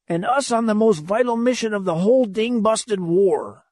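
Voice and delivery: put-on high, scolding old skipper; enraged old captain. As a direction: scold like an angry lion of a captain.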